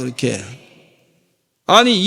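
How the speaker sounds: usual speaking voice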